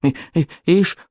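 stuttering little dragon grumble; grumbling. A narrator's reading. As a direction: stammer on the first sounds, dragging the word out slowly. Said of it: "пробурчал Беззубик". (ворчливо, заикаясь)

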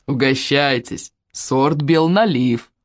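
slow, unhurried kind offer; calm old man. Acted. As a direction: grandpa politely offering. Grandpa offers apples calmly.

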